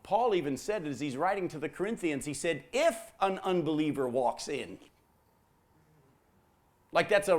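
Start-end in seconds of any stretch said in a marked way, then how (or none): 2.7-4.8 single out the word IF; stress on IF. Acted. Preacher quoting Paul to the congregation, stress on IF.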